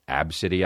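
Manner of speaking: Absidy said AB-sih-dee; Absidy, rising at the end; pronounced name. Shown as a demonstration. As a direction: say Absidy stressing the first syllable AB. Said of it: "as it is pronounced".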